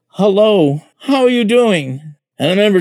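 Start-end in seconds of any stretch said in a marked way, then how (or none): 0.1-0.8 quoting a greeting. Retold or imitated. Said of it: "He said". 1.0-2.0 quoting a greeting. Retold or imitated. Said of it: "He said".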